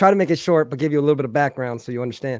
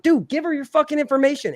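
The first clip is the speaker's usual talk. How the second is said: retold annoyed order; 11 semitones higher than usual. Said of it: "I'm like".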